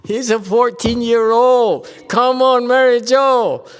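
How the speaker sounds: high, loud, laughing through it; laughing protest. Real, not acted. Teacher laughing at a student's kiss-it-better example, high and loud. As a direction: laugh it off loudly.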